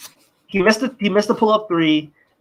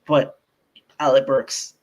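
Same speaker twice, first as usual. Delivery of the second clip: mock Thibs; 4 semitones lower than usual. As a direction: explain it like a self-justifying coach, pitch dropped. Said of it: "And he'll be like".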